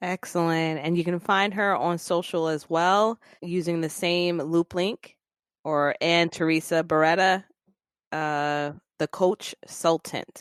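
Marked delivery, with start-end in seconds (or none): 9.0-10.4 slow, careful, deliberate delivery. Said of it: "have to say that slowly".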